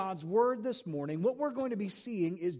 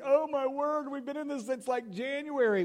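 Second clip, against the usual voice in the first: exasperated; 6 semitones higher than usual. Retold or imitated. Congregation groaning at long series.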